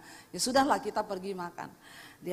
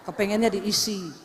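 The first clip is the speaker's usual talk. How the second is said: laughing punchline; 3 semitones lower, 5 dB louder than usual. Acted. Jokes about piggy-bank pastors.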